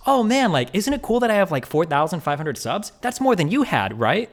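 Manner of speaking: high, sing-song mock girlfriend; girlfriend's bragging voice. Retelling her boast to the boyfriend in a high mocking girlfriend voice.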